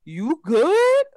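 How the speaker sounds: put-on high, light voice for the baby; baby's unbothered look. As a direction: voice a calm baby checking on mom. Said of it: "he was looking at me like".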